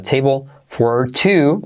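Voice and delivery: "Table" slowly, its final L barely pronounced; slow model phrase, "Table" ending like "teibo"; near-silent final L. Shown as a demonstration. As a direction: draw out "Table for two", swallowing the L. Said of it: "La L casi no se pronuncia al final".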